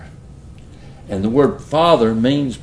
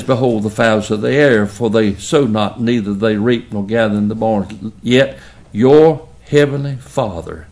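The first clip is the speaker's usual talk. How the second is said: scripture reading; 4 dB louder than usual. Acted. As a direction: intone the verse like a preacher from the pulpit. Reads scripture aloud.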